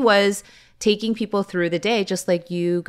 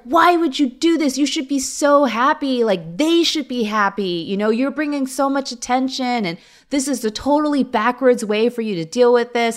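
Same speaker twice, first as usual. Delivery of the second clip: husband's mad protest; 6 semitones higher than usual. Retold or imitated. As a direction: replay the husband's indignant "why would you do this", pitched up and pushed. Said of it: "my husband was so mad that I deleted it".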